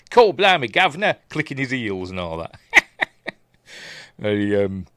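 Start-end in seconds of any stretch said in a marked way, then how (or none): 0.1-1.2 hammed-up Cockney, higher and louder; a cheeky mock Cockney cry. Vlogger mocks Morn with a hammed-up Cockney cry.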